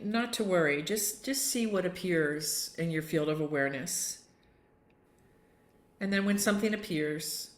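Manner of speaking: unhurried yoga nidra guidance with long pauses; guided meditation. Real, not acted. Yoga teacher settling the group for tonight's Yoga Nidra, calm meditation voice. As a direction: gently lead them into stillness, phrase by phrase.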